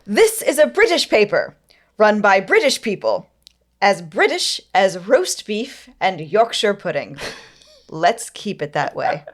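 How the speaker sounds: put-on pompous quote, barely holding back a British accent; resisting a British accent. Podcaster quoting Robert Maxwell, straining against a British accent. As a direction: declaim it proudly, almost slipping into British. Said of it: "a valiant effort, E J. not to do the British accent".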